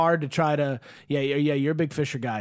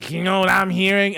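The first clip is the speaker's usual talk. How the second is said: a bit louder, with a knowing lean; dad's pointed question; 3 semitones higher, 5 dB louder than usual. Retold or imitated. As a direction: imitate dad setting up a gotcha. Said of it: "it was more like".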